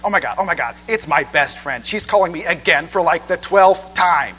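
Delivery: a mild mock whiny girl, slowing on "the twelfth time"; annoying ringtone voice. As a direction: lightly imitate the grating ringtone. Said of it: "exceedingly annoying voice".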